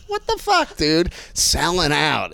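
slow, drawn-out mock outrage; mock indignation. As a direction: stretch out the accusation in disbelief. Riffing mock outrage about a star.

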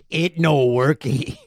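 slow, lightly put-on broken English; a lazy, slowed-down caveman-style complaint; imitating the host. Listener mimicking the host to a store clerk, slow mock voice. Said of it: "I do my best impression of you saying".

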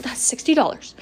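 breathy whisper of inner dread; whispered panic. Retold or imitated. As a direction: hiss it to yourself in panic. Inner panic over lost money.

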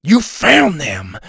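slow, loud excited blurt; too loud. A narrator's reading. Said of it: "he said too loud".

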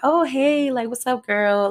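casual greeting. Retold or imitated. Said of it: "just trying to play it casual".

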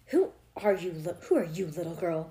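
moderately loud, cross challenge; yelled. A narrator's reading. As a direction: demand it like an irritated neighbour. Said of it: "Missus Trans yelled".

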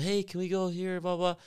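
put-on high whiny kid plea; begging kid. Coach imitating kids begging their moms, high and whiny. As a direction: mimic a kid begging mom.

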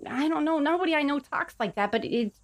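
a hint of a worried little goblin; nervous goblin. Plays Baha the goblin.

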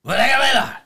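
put-on light French accent, quickening at the end; a hint of French chef host; mock French chef. Chef asking his guest about the restaurant, light French accent. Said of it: "mimic me with my accent".

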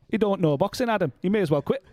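lightly voiced impression of a boxing figure; a hint of an impersonation, slightly put on; Naz. Co-host mimics a boxing figure writing off Eubank, light impression. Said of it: "That's my Naz impression".

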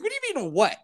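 high exasperated scolding. Retold or imitated. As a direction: scold them in disbelief. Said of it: "I'm like".

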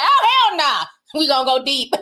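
sassy refusal. Retold or imitated. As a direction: brush it off with sass. Her own imagined retort.

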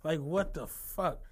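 deflated mock self-reproach; retold resignation. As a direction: drop down low and soft, giving up. Retold moment of giving up.

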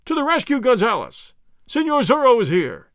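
high, loud shriek. Acted. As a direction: shriek for help. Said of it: "he shrieked".

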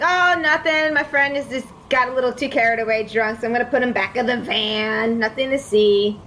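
mild mock yell. Player covering to the guard about a drunk friend, mildly yelling. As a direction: play innocent, calling it over without full force. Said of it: "I just yell, like".

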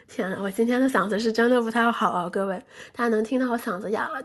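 hoarse from a cold; rough, hoarse throat. Real, not acted.

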